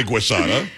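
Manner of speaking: GUISADA opened with a "gwee" sound; Italianized pronunciation. Shown as a demonstration. Self-declared Guido defending the wording, Italianized GUISADA. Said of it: "I'm a Guido. I'm allowed to say".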